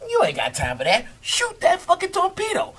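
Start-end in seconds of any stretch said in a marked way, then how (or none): 1.2-2.7 high, yelled command; captain yelling a firing order down the boat; captain's order. Retold or imitated. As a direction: shout it at the crew. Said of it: "the captain come in".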